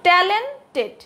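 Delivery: ট্যালেন্টেড with a slight break before the last syllable; split pronunciation. Shown as a demonstration. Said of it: "কীভাবে উচ্চারিত হলো".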